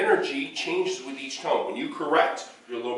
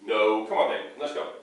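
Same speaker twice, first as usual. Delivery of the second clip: gentle redirect; 3 semitones lower than usual. Shown as a demonstration. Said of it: "you wanna correct".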